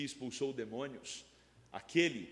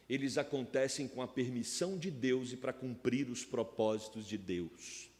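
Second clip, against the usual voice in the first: normal talking voice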